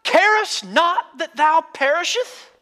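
high, loud, slow alarmed cry; panicked disciples in King James. Retold or imitated. Disciples waking Jesus in the sinking boat, high loud desperate plea. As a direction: plead in old King James words, alarmed. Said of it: "I'm gonna say it in the King James".

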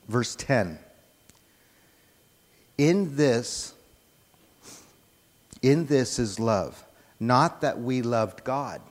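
measured, emphatic Bible reading; scripture reading. Real, not acted. Preacher reading First John to the congregation, measured scripture reading. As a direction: read the verses out deliberately, with pauses.

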